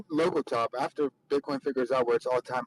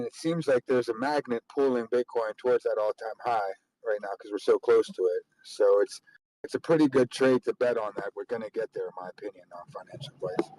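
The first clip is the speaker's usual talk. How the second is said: over a landline phone; 4 semitones lower than usual. Real, not acted. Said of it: "You sound like you're on a landline".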